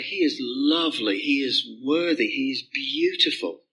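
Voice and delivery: understated worshipful awe; adoring praise. Pretend. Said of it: "you'll say".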